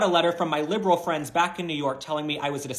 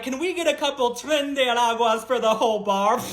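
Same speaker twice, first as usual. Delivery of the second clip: a hint of a hammed-up Spanish accent; fake Spanish accent; 5 semitones higher than usual. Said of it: "her fake Spanish accent".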